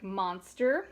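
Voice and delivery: monster said slowly, MON-ster; slow demo word. Shown as a demonstration. Teacher slowly models monster for the class. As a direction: stretch out monster for the kids. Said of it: "If you clap or tap out monster".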